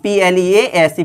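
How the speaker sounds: letter by letter, slowly; spelling aloud. Shown as a demonstration. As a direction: spell it out for the students. Teacher spells the word. (अक्षर-अक्षर बोलना)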